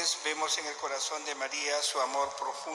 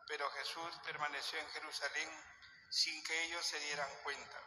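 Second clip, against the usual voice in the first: Gospel reading. Real, not acted. Priest reads the Gospel.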